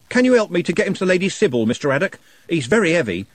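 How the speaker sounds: fast, high, loud desperate plea. A narrator's reading. Trev begging Constable Haddock for help, desperate. Trev carrying dead Nutt.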